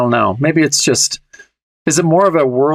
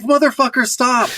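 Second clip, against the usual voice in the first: a much higher mock-exasperated shriek; imitating yelling at cat; 11 semitones higher than usual. To the cat eating the chapstick, a mock high shriek. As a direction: shriek it at a cat wrecking everything.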